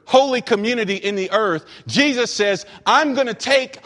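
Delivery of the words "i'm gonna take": raised, driving preacher's proclamation; emphatic preaching declaration. Acted. Preacher voicing Jesus' promise to form one new man, emphatic proclamation. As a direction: build insistently through each repeated promise.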